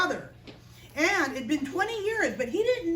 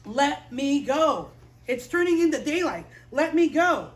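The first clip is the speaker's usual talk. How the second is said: firm Jesus voice; 4 dB louder than usual. Retold or imitated. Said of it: "Jesus is saying".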